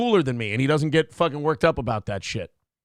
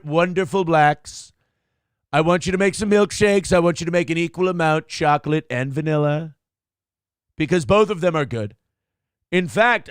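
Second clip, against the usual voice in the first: Trump impression. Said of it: "taught me how to do a Trump impression".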